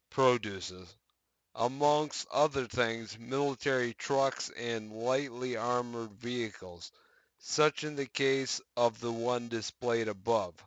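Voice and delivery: brighter announcer reading voice; news article read. Acted. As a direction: read it like a patch news post.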